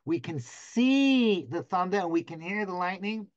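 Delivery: "We can see the thunder and we can hear the lightning" stretched out word by word; slow it down so every word lands; unhurried, savoring the paradox; said slowly. Shown as a demonstration. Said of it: "Let me say that slowly".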